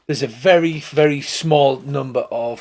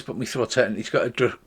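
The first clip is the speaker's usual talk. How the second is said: ordinary talk, nothing marked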